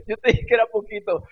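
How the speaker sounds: high, loud imitation of a scolding wife; Paulita. Wife reminds husband about the garlic, high mock reproach. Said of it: "Paulita estaba tan asombrada que ella lo único que dijo es".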